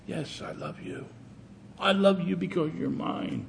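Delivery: soft breathy whisper of God. Acted. God answers the praying sinner in a whisper. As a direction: breathe it like a secret to the heart. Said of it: "I hear God whisper".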